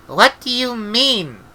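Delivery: put-on a frightened child asking; alarmed girl. A narrator's reading. Young apprentice asking the old witch, slow and alarmed.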